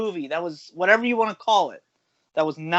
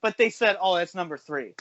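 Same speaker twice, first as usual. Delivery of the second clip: higher-pitched heated rant; getting heated; 5 semitones higher than usual. Real, not acted. Ranting to podcast co-hosts about an award vote, heated. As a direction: rant with real, rising exasperation. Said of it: "I'm getting heated now. I'm getting heated".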